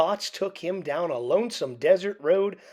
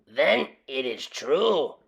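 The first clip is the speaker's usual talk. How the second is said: decreed; 3 semitones lower, slower than usual. A narrator's reading. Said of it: "decreed Don Diego".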